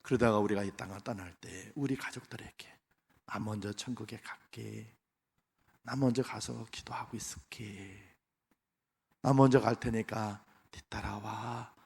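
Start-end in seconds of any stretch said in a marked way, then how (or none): 3.3-11.7 gentle farewell. Retold or imitated. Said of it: "할 수 있는 신앙의 고백".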